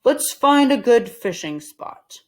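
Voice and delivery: slow and firm, leading the way; Mister Rogers voiced. Mister Rogers leading the family to fish, slow and firm. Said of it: "said Mister Rogers".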